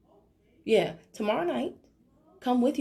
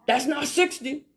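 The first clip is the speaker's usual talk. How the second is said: slow, pointed, a bit louder; deadpan correction; 5 semitones higher, 5 dB louder than usual. Retold or imitated. Leader answering a member about the fee, slow and pointed. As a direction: spell out the obvious to a confused member. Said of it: "I'd be like".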